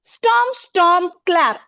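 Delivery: स्टॉम्प, स्टॉम्प, क्लैप as three separate beats, stepping down in pitch; three-beat stress pattern. Shown as a demonstration. Teacher demonstrates an anapest, beating out स्टॉम्प, स्टॉम्प, क्लैप. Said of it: "दो unstress syllable हैं".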